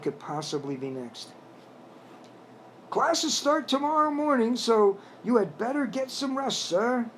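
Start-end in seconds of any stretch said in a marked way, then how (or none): 2.9-7.1 put-on high, proper English accent with a firm edge; a frog butler speaking stiffly and properly. A narrator's reading. Frog butler telling the guest to rest, stiff English accent. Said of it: "A voice with a stiff English accent".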